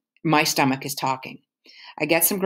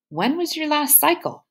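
prying mother; 11 semitones higher than usual. Acted. Mom grilling daughter.

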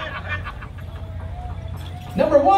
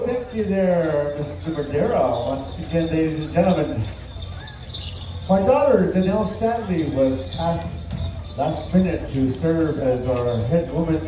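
measured arena announcer address; powwow emcee. Real, not acted. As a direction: speak to the whole arena, unhurried. Emcee speaks over the arena PA.

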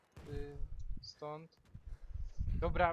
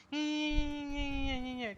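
panicked; 7 semitones higher, 3 dB louder than usual. Real, not acted. Panicked repeated no.

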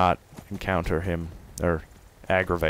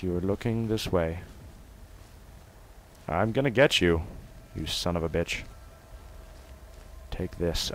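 hushed sneaking; 7 dB quieter than usual. Real, not acted. Sneaking in game.

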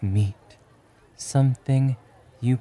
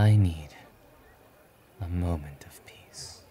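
reluctant hero relenting; 2 semitones lower than usual. Acted.

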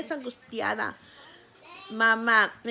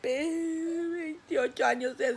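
tearful closing; 3 dB quieter, slower than usual. Real, not acted. Closing her story emotionally.

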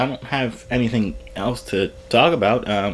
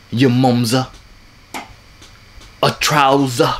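mock angry British; 4 dB louder than usual. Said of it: "I'm only good at being angry British".

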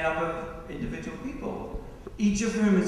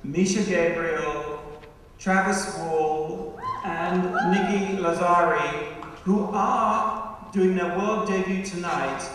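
podium speech; slower than usual. Acted. Introduces dancers from the podium.

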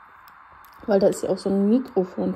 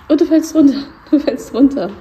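loud, high playful cry; loud playful exclaim; 5 semitones higher, 8 dB louder than usual. Real, not acted. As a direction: call out in amused alarm. Laughing at pet falling. (lautes, verspieltes Ausrufen)

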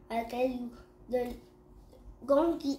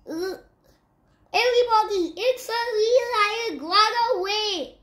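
high, loud warning to all; alarmed shout; 9 semitones higher, 7 dB louder than usual. Acted. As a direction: call everyone to flee. Rabbit warns everyone.

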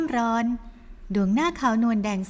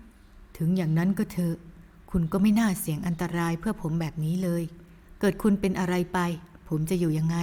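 gentle scolding man; 3 semitones lower than usual. Acted. Hero chides the woman who risked herself, lower. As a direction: mildly scold her, lower.

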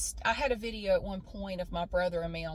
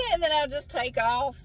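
words broken up by laughter; laughing; 6 semitones higher, 5 dB louder than usual. Real, not acted. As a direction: laugh your way through the line. Laughing at her own story.

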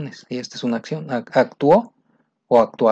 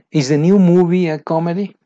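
first take louder and higher; loud model question; 5 semitones higher, 7 dB louder than usual. Shown as a demonstration. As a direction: project the question. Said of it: "question read twice".

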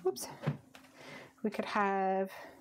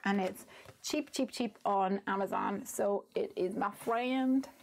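put-on a light, slowed Georgia accent. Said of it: "Georgia accent".

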